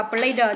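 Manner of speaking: "player" said as play plus a voiced "duh". Shown as a demonstration. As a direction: say "player" as "play-đờ", sounding out the final d. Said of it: "con sẽ phát âm là the".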